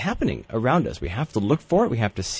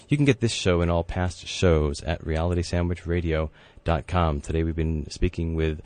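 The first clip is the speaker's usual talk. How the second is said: radio sign-off. Acted. Radio show outro.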